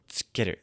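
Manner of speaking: "Tsukeru" with a crisp ts at the start; pronouncing tsukeru. Shown as a demonstration. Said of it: "This is the T S U, ts sound".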